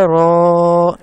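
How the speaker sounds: را said heavy and full, loud; heavy letter. Shown as a demonstration. Teacher showing the heavy را to students. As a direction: give را a thick full sound. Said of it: "را کو موٹا پڑھا".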